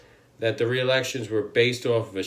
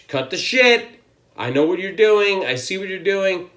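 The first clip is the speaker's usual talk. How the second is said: stern warning; 6 semitones higher than usual. Retold or imitated. Trump voiced warning Japan.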